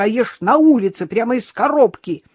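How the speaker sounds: scandalised wail; horrified reproach. A narrator's reading. Innokenty scolds his dog in horror. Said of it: "в ужасе закричал Иннокентий".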